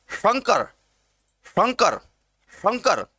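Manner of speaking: शंकर with a careful palatal श; touch the palate for the sh starting शंकर. Shown as a demonstration. Teacher models a difficult sound, palatal sh in शंकर. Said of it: "तालु को स्पर्श करे".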